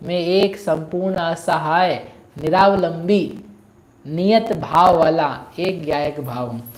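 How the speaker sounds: slow, deliberate recited affirmation; measured recitation. Acted. Preacher giving a contemplation on being alone, measured recitation. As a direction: recite it slowly, phrase by phrase.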